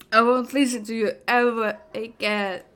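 normal talking voice

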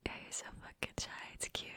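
hushed fast teasing whisper. Acted. Teasing a shy friend she cuddles, whisper. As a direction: tease them right at the ear.

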